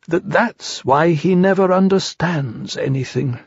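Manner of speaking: slow, drawn-out musing; thoughtful Pooh. A narrator's reading. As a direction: ponder it at half speed. Pooh finishes his slow thought.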